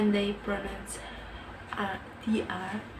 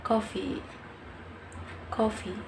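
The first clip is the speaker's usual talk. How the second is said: coffee in an American accent, falling at the end; 3 dB quieter than usual. Shown as a demonstration. Learner shows how Americans pronounce the word, American accent. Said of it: "in American accent".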